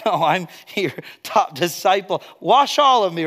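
lightly acted, zealous volunteering; overeager disciple. Preacher playing Peter pleading with Jesus to wash him, overeager.

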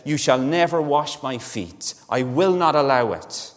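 insist, raising the voice on "never"; emphatic. Retold or imitated.

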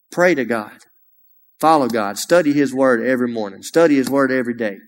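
fervent sermon climax, pressing each line; preaching exhortation. Acted. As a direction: drive the call home like a preacher. Preaching altar call to congregation.

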